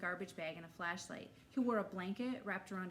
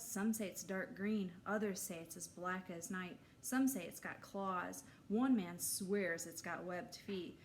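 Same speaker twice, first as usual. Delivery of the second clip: spooky campfire storyteller. Acted. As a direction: draw the kids in with suspense.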